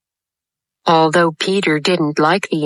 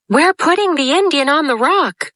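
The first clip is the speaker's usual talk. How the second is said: calling out; 10 semitones higher than usual. A narrator's reading. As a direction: call it out to the captain. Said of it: "Smee called out".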